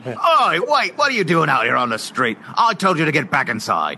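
stern father. Acted. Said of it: "started out by saying Oi".

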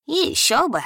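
put-on high giggling old man. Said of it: "хихикнул старикан".

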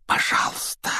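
unvoiced urgent whisper; desperate whisper. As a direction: hush him in despair. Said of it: "зашептал Гарри в отчаянии". (отчаянный шёпот)

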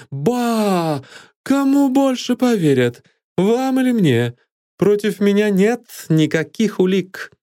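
high, scornful, taunting; mocking scorn. Villain mocks the accuser. (насмешливое презрение)

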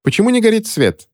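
резко выше, с удивлением; вскинув голову, удивиться; удивлённо. A narrator's reading. Ремора удивлена темнотой. (удивлённый вопрос Реморы)

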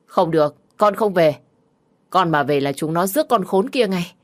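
loud refusal. Acted. Daughter refusing loudly.

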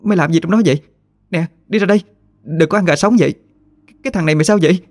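high, shocked calling out; Thơ shocked to find her friend; startled cry. A narrator's reading. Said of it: "Thơ giật mình la lên". (giật mình la lên, giọng cao)

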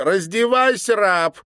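put-on high, loud girlish command. A narrator's reading. Girl ordering the governor to undress, high and commanding. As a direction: bark the order like a little tyrant. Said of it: "приказала девочка".

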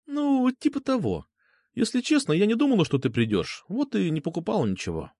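lightly voiced young woman. Girl admits she bought nothing, a little shy. Girl's voice in dialogue.

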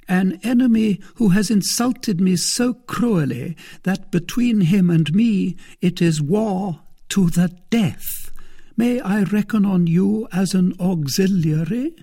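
high, forceful lady's voice, wronged and intense; Milady, vengeful. A narrator's reading. Lady enlisting suitor against mortal enemy, high and vengeful. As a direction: recruit an ally against your enemy.

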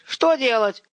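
put-on high, helpless boyish shout; yelled question. A narrator's reading. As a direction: holler for instructions in confusion. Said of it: "заорал Ромка".

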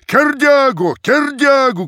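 very high, loud chanted shout; crowd shout. A narrator's reading. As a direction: roar the name twice. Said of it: "кричала толпа".

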